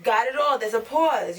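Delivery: "Got it all" punched loud then a stop; pause shown after "all". Shown as a demonstration. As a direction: land the phrase and stop. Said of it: "you gotta pause".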